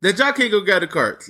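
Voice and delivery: high, incredulous mock question; incredulous quote. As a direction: sound baffled at their laziness. Mocking coworkers over carts.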